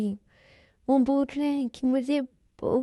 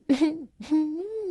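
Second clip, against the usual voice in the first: sob; 5 semitones higher than usual. Acted. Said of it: "वे, तुम रो रही हो?".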